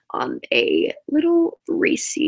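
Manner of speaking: slow, drawn out on "little Reese", stretching "little"; drawn-out build-up. Shown as a demonstration. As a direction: savor "on a little Reese" slowly like a teaser. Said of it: "Back to where we were".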